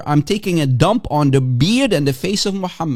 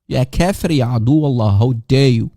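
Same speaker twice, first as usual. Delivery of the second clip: lower, louder hammed-up scolding; mock outrage; 5 semitones lower, 3 dB louder than usual. Mocking a preacher who scolds an unbeliever, hammed-up anger. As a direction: play a preacher pretending to be furious.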